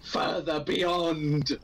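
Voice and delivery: slow shouted anime cry. Shown as a demonstration. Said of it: "go as high as you physically can".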